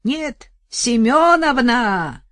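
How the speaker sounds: slow, loud full-force yell. Acted. Вдова орёт соседке изо всех сил. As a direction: bellow it with all her might. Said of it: "изо всей мочи заорала".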